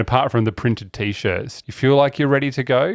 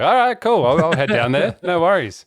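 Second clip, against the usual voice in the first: put-on much higher, old-time radio announcer voice; 1920s radio voice; 5 semitones higher than usual. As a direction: chirp it out like a 1920s wireless host. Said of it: "Did you talk in that nineteen twenties radio voice".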